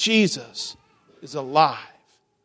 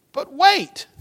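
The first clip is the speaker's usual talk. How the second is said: sudden suspense; 13 semitones higher, 4 dB louder than usual. Acted. Suspense beat in read story.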